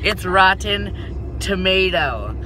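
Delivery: high, slow, teasing "Tomato"; mock high drawn-out correction. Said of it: "laughs, corrects".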